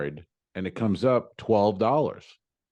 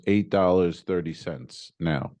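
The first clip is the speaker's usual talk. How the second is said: slow, lower mock broken English; 4 semitones lower, slower than usual. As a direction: imitate halting broken English, word by word. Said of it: "in broken English".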